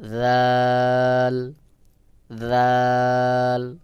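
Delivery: জাল with open mouth, held very long; open-mouthed, natural. Shown as a demonstration. Teacher shows the letter's sound, open drawn-out জাল. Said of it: "মুখ খুলে স্বাভাবিকভাবে উচ্চারণ হবে".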